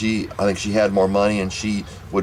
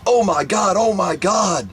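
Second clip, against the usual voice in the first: panicked screaming; 11 semitones higher, slower than usual. Retold or imitated. Mother finding shells in her baby's mouth, imitated panicked screaming. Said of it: "She started screaming".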